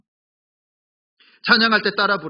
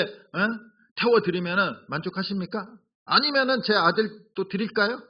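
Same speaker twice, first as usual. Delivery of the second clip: sarcastic. Acted. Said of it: "이거 비꼬는 말이에요".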